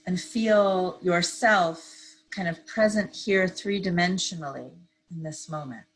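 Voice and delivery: calm, unhurried meditation guide; measured phrases with long pauses to breathe; guided meditation. Real, not acted. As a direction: ease listeners gently into stillness. Leads a seated meditation.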